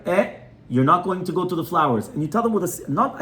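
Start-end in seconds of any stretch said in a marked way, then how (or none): 0.1-2.1 put-on calm but firm warning to a baby; steady parental no. Shown as a demonstration. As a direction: set the limit firmly, no anger. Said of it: "You tell him very firmly".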